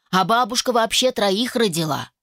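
ordinary delivery

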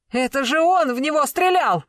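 accused man pointing at the other, frantic; frantic outburst. A narrator's reading. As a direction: blurt it out in panic. Accused blurts out the real shooter.

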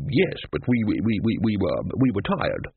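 sheepish stammer; stammered excuse. Acted. Wizard caught out by Ridcully, stammering excuse. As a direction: stumble over the first word of a feeble excuse.

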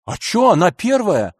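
жалоба обиженного ребёнка, повыше; нажалуйся, как надутый ребёнок. Acted. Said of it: "с видом обиженного ребёнка пожаловался". (грабитель жалуется следователю, как обиженный ребёнок)

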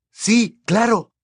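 high, forced eager agreement; awful effusive voice. A narrator's reading. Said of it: "con aquella espantosa voz efusiva". (voz efusiva y falsa, muy aguda)

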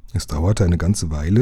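ordinary delivery

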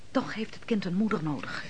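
breathy whisper, a confiding aside. Acted. The woman whispers a pointed aside beside the commander. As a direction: whisper it as if only to herself.

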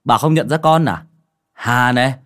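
put-on loud, eager young man, climbing in pitch; exclaiming joyfully. A narrator's reading. Returning young man greeting old neighbour, excited and loud. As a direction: burst out with delighted recognition. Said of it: "anh reo lên".

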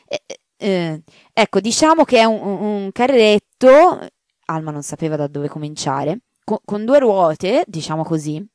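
the maid afraid to tell the marchioness; hesitant maid. Acted. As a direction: stumble over how to say it. Maid fumbles for words.

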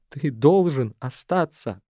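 громче, медленно, надрывно; сквозь слёзы, голос рвётся; голос срывается. A narrator's reading. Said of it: "Её голос затрещал, разрываясь по швам". (Шана умоляет Арафа: громче, медленно, с надрывом)

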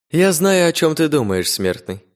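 high, mocking demon voice in the head; a demon speaking straight into his mind; whispery telepathic voice. A narrator's reading. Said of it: "голос звучал прямо в сознании Алекса".

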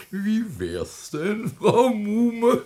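high, giggling tease at the widow; a cackle, then a needling question; teasing laugh. Acted. Bürgermeister neckt die Witwe, hoch und kichernd.

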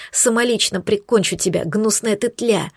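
furious whispered threat, slowing down at the end; angry hiss. Acted. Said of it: "Шипела я злобно".

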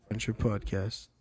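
movie trailer voice. Pretend. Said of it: "trailer voice".

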